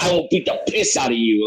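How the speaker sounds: imitated anger, held mostly in check; retold angry threat. Angry teacher threatening a boy, mildly acted rage. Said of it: "just angry".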